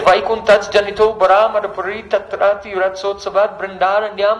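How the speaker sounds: even, level-pitched scriptural chant; Sanskrit verse recitation. Acted. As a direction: recite the verse in one steady rhythmic flow.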